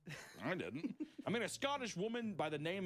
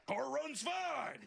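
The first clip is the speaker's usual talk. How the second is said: much slower, higher, shrugging; mock casual donor; 9 semitones higher, much slower than usual. Donor sister shrugging off her parts, slow and high. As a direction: drag it out like it's nothing.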